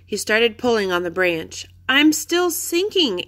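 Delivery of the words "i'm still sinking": high, slow, scared wail. A narrator's reading. Annie wails to Jack from the mud, high and slow. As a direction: wail it, sinking and helpless. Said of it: "Annie wailed".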